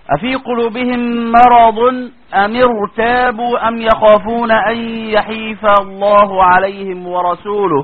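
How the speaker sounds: slow measured recitation of the verse; unhurried tajweed recitation; Quranic recitation. Acted.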